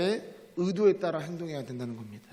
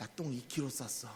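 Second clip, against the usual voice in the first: proud, very quiet, hushed half-whisper; 6 semitones lower, 13 dB quieter than usual. Telling a story of half-whispering to a friend in the cinema: retelling a half-whisper. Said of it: "친구에게 귓속말로".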